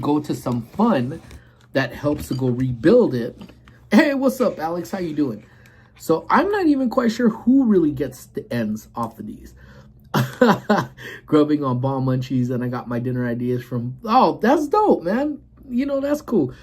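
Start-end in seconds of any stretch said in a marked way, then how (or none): 3.9-5.4 excited greeting. Real, not acted. Greeting chat viewer on stream. 14.0-16.5 excited reaction. Real, not acted. Reacting to chat message.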